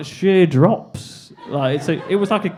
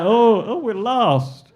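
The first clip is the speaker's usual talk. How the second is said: put-on higher, accidental American accent; 6 semitones higher, slower than usual. Lost tourist answering two girls, wrongly in an American accent. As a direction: slip into a mock Yankee voice. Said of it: "not an American accent".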